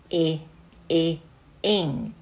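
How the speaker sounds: short lax え, え, then ink with that same vowel; short I phonics sound. Shown as a demonstration. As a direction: model the loose i of ink in each え. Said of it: "Iの音".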